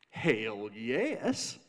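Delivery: wry reply with a rising lilt on "yes". Acted. Caesar answering the crowd from the podium, wry. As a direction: answer with a sly, wry smile. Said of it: "kind of a wry smile on his face".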